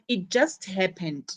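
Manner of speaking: "just" stressed, voice falling to the end. Shown as a demonstration. Teacher showing learners how recent the accident was, stress on "just". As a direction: lean on the word "just" in "it just happened". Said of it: "Notice the stress on just".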